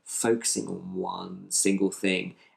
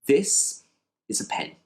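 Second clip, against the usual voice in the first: calm guided phrase; 4 semitones higher than usual. Shown as a demonstration. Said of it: "All we're gonna do is say".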